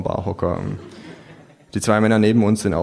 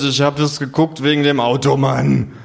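a touch louder, indignant insisting; 5 semitones higher, 3 dB louder than usual. Acted. Narrator insisting he watched for the car, indignant. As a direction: defend your honour. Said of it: "rufe ich empört".

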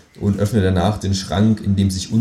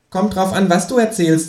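higher, suspicious kangaroo; 11 semitones higher than usual. Acted. Kangaroo confronting the narrator about the radio, higher. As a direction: confront him slyly.

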